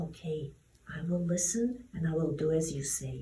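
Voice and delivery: low, soft, obedient reply; hushed, humble consent; meek agreement. Acted. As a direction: give in quietly. Moses gives in to God.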